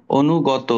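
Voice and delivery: অনুগত slow, with the final o sounded; slow model word. Shown as a demonstration. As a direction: say অনুগত slowly as onugoto, no stop before the end. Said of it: "ও পড়বা যদি ত থাকে". (শেষে ও সহ ধীরে উচ্চারণ)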